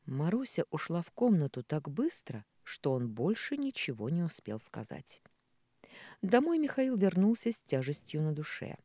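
usual speaking voice

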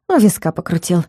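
ordinary delivery

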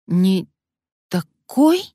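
high, frightened echo. Acted. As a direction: gasp it out in fear. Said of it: "испуганно повторила Алёна".

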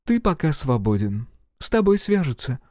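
curt woman agent. A narrator's reading. Agent dismisses Smith.

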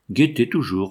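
level, even "Guettez toujours" with no lift; a shepherd's flat, repeated command; monotonous. Acted. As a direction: drone "Guettez toujours" like a rote chant. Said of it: "reprenait monotonement le pâtre".

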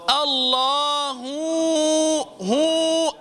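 الله ending in a rounded هو like a waw; mock mistake, ha turned into waw; wrong waw sound. Shown as a demonstration. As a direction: let the final ha of الله slide into هو. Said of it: "هذه ممنوعة".

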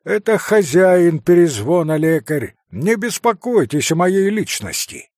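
loud, syllable by syllable; clipped defiance. A narrator's reading. Kolya to the doctor, loud defiant. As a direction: spit out each word defiantly. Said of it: "отчеканил опять Коля".

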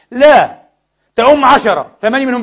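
high and loud insistence; forceful preacher; emphatic. Real, not acted. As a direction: drive the point home. Emphatic pulpit point.

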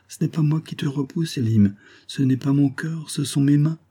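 a hint of a bashful young girl; young girl's voice. Jane shyly explaining to Elim why she pushed him away, lightly voiced.

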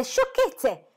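the second cry outdoes the first. A narrator's reading. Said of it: "si accontentò di esclamare".

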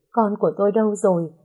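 put-on panicked search for her baby; frantic question. Mother asks for lost baby. (hoảng hốt hỏi con đâu)

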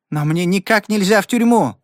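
high, mildly pleading plea; Rowdy begging the sheriff, lightly pleading; a hint of pleading. A narrator's reading. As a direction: beg him gently to understand. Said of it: "взмолился Рауди".

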